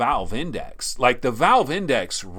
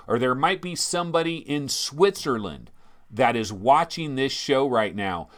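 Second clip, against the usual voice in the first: ordinary talk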